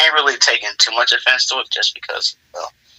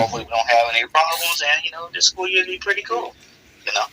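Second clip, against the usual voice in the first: higher, sugary ladylike tone for a first impression; sweet endearing voice; 6 semitones higher, 4 dB quieter, faster than usual. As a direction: play the polite new girl, lightly hammed up. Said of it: "friendly smile, trying to be endearing".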